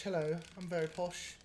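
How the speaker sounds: a light, understated hint of a posh Londoner; just a touch of posh, kept soft.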